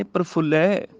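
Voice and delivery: ਪ੍ਰਫੁੱਲੈ ending in open "ai". Shown as a demonstration. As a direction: open up the last vowel of ਪ੍ਰਫੁੱਲੈ. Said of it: "ਲੱਲੇ ਨੂੰ ਦੁਲਾਵਾਂ". (ਪ੍ਰਫੁੱਲੈ, ਅੰਤ ਵਿੱਚ ਦੁਲਾਵਾਂ)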